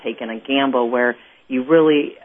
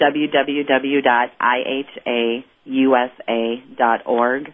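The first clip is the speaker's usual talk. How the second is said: slow, spelled-out web address; really slow; slower than usual. Real, not acted. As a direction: spell it out slowly, letter by letter. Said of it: "say that really, really slow".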